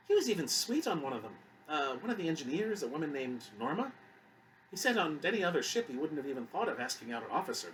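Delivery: chatty grandmother. Acted. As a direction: reminisce in a lilting voice. Voices Susan, the guard's grandmother.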